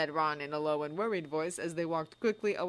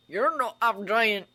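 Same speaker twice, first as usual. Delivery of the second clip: groggy; 5 semitones higher, 5 dB louder, slower than usual. A narrator's reading. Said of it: "said Hagrid groggily".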